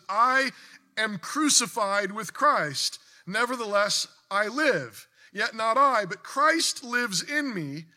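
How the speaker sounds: fervent reading, slow and swelling; preached scripture. Acted. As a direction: proclaim the verse to the church. Reads Galatians in preaching voice.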